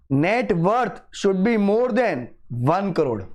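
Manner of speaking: very slow, word by word, every condition spelled out; slow dictation. Shown as a demonstration. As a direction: dictate each limit slowly so students can write it. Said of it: "dictating key conditions slowly". (धीरे-धीरे, हर शब्द पर ज़ोर देकर लिखवाना)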